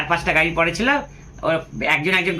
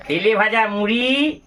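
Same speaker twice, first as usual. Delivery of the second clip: savouring; slower than usual. Real, not acted. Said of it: "এই দেখুন সেই জল খাবার".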